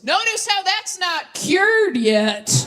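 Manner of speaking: slow, pointed jab; deadpan dig. Retold or imitated. Dad needling stepmom about her ex, slow deadpan jab. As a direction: lay the dig on slowly and dryly. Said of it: "And my dad goes".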